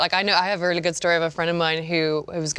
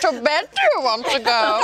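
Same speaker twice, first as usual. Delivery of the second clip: Yoda voice; 6 semitones higher, 4 dB louder than usual. Pretend. Yoda-style sexy line.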